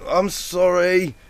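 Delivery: high, slow innocent apology. A narrator's reading. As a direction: sound sweetly innocent. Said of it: "she said innocently".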